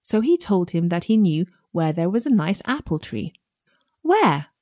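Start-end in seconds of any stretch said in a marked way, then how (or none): 4.0-4.5 piglet voice. A narrator's reading. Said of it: "said the pig".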